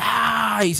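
tribes shouting a battle cry, sudden high yell; imitating the tribes' battle cry to scare enemies. Preacher mimics Judah and Levi yelling before battle, high mock shout. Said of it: "gritaban fuertemente".

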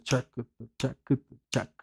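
short, evenly spaced "chac" beats; rhythmic "chac" clicks. Shown as a demonstration. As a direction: mark each pulse with a quick "chac". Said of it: "es como hacer".

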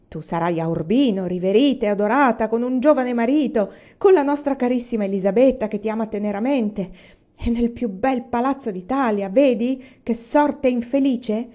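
mock her bad luck; exasperated mother sneering; 1 sarcastic rebuke.

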